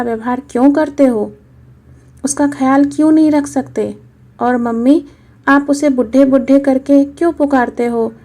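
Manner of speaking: a hint of a hurt little boy asking why; little boy questioning grandpa; young grandson. Child grandson voice.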